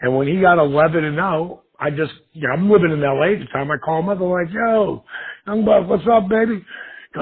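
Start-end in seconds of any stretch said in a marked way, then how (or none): 4.5-6.6 upbeat greeting. Retold or imitated. Calling a friend, upbeat.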